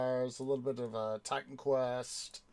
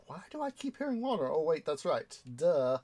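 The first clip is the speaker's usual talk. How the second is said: fast, much higher puzzled self-quote; mock confused then sheepish duh; 3 semitones higher than usual. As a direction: replay your own baffled moment, quick and high. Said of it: "I was like".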